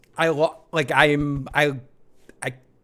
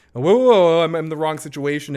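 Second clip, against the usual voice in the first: imitating panicked Howard, loud start; quick rattled mock panic; 2 semitones higher, 5 dB louder than usual. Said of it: "Howard's panic in his voice".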